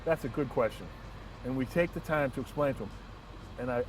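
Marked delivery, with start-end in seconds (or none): 0.1-0.9 calm reply. Retold or imitated. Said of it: "we very calmly say".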